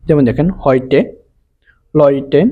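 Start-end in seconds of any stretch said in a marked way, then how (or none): 0.6-1.0 "হয়টে" with an oy glide; model pronunciation. Shown as a demonstration. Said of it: "অয় বা আয়ের মতন উচ্চারণ হয়". 1.9-2.4 "লয়টে" with an oy glide; model pronunciation. Shown as a demonstration. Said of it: "অয় বা আয়ের মতন উচ্চারণ হয়".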